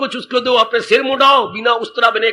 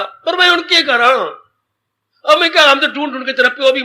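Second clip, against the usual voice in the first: mother snapping at her grown daughter, raised voice; scolding mother; 2 semitones higher than usual. Retold or imitated.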